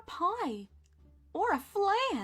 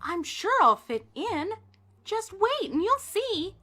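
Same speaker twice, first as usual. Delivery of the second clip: higher, louder, hopeful; eager reassurance; 8 semitones higher, 7 dB louder than usual. A narrator's reading. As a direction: promise you'll fit in. Pumpkin reassures the witch.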